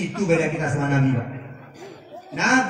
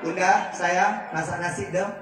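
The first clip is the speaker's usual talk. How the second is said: gentle request. Shown as a demonstration. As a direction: ask your wife kindly, no pressure. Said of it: "Nggak begitu, Pak".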